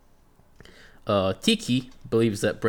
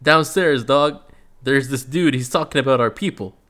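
imitating Kimbo; 4 semitones higher, 3 dB louder than usual. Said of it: "And Kimbo's like".

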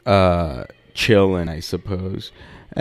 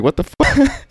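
retold disbelief. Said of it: "I'm like".

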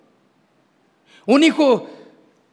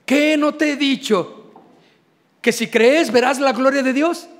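loving scolding; 2 semitones higher than usual. Acted. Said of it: "un regaño de mucho amor".

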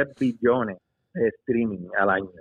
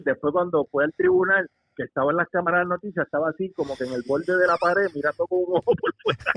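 contando entre risas; 3 semitones higher than usual. Real, not acted. Contando entre risas, muy agudo.

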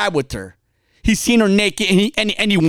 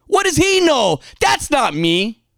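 mock indignant, pitched higher at first; mildly angry listener; 5 semitones higher than usual. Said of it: "Some of you getting angry".

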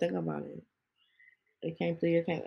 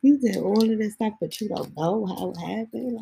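disbelieving; 4 semitones higher than usual. Retold or imitated. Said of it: "I be looking at her like".

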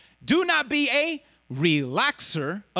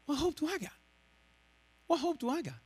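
soft, higher-pitched helpless plea; hushed despair; 6 semitones higher, 9 dB quieter, faster than usual. Acted. Preacher voices a listener told his hero falls short, hushed despair. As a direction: say it small and quiet, as if all hope is gone. Voicing a listener losing hope.

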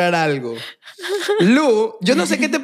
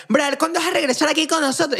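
impression of Lu; 5 semitones higher than usual. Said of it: "mi percepción de cómo yo te percibo".

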